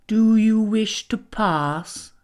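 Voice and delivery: slow, silky, sly voice; silky spider. Acted. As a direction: purr the question like a predator.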